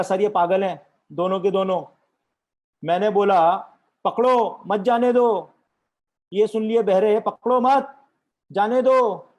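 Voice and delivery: loud, high-pitched indignant complaint; exasperated officer. Acted. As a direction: shout the order out in exasperation. Exasperated officer shouts the order. (झल्लाए अफ़सर की ऊँची आवाज़)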